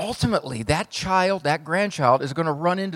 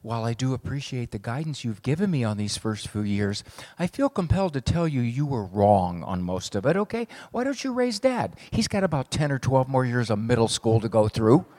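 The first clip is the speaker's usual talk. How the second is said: put-on prim little girl; 3 semitones lower than usual. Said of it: "five-year-old girl walks up to her mother".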